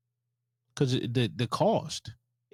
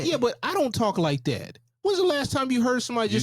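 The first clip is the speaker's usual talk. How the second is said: high, projected mock preacher; Southern preacher voice; 12 semitones higher than usual. Friend still in preacher impression while denying it. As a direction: keep the preacher act going. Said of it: "why are you talking like a Southern Baptist preacher".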